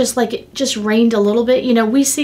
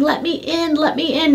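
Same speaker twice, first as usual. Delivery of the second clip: retold pleading cry; 6 semitones higher than usual. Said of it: "crying and screaming".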